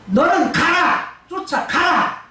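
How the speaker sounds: lightly voiced God sending David out; God commanding. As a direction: order him on, word by word. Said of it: "라고 말을 해요".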